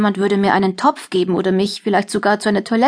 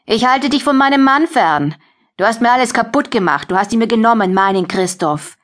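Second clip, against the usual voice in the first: jealous anger; 3 semitones higher than usual. Acted. Jealous wife rages at rival.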